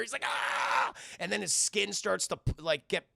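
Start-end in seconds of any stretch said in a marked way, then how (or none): 0.2-0.9 hoarse, voiceless cry of pain; mock pained scream. Fake seer hit by a trident, strangled mock scream.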